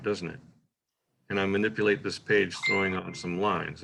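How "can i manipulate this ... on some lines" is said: runs straight through the lines; read swiftly. Shown as a demonstration. Teacher reading a poem to show no punctuation, fast. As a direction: speed right through without a pause. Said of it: "it speeds right through".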